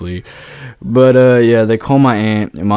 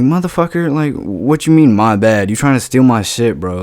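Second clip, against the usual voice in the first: angry confrontation. Retold or imitated. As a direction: call him out, offended. Confronting the guy over vape.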